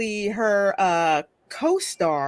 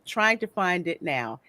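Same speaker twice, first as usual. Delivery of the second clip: ordinary talk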